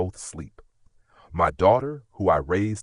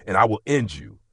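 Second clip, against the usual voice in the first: cold threat; 2 semitones higher, 4 dB louder than usual. Acted. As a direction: threaten him, mean every word. Father threatening daughter's abuser.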